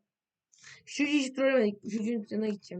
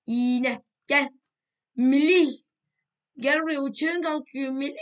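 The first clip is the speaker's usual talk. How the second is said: loud high call across the map; 5 semitones higher, 8 dB louder, slower than usual. Real, not acted. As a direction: shout his name to get his attention. Calling out to another player.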